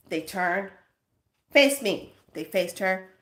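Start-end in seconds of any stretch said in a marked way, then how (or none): 1.5-2.2 loud sharp order; queen ordering troops, loud; barked command. Retold or imitated. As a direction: command the soldiers.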